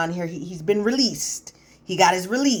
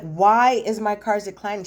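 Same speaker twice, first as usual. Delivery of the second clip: higher-pitched mock indignation; retold indignant demand; 4 semitones higher, 4 dB louder than usual. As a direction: demand answers, imitating an upset husband. Husband confronts laughing wife, card declined.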